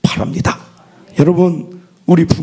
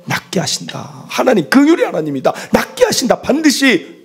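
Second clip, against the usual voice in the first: impassioned preaching; 9 semitones higher than usual. Acted. Pastor pressing the point hard to the congregation, impassioned. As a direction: preach it with full conviction.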